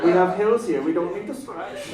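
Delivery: put-on lightly sinister German accent. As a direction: do a stern, hammy German. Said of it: "Don't know why I made you German".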